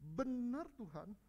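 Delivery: slow, humble "Benar Tuhan"; humble assent. Acted. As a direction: yield gently as the woman before Jesus. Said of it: "Dia ngomong gini".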